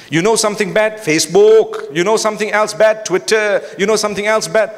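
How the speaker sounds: sing-song Malaysian accent. Real, not acted. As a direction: slip into a Malaysian accent with rising questions. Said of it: "mixing this with a Malaysian accent".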